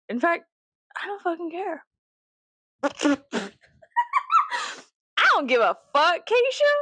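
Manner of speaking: mock indifference. Mock denial of caring.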